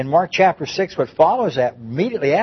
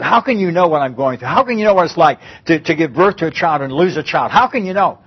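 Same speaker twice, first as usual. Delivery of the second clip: anguished protest; 2 semitones higher, 3 dB louder than usual. Retold or imitated. Grieving mother challenging friend.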